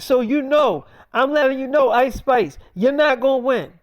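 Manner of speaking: bossy woman making threats down the phone; tough woman voice. Acted. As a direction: lean in and lay down the law.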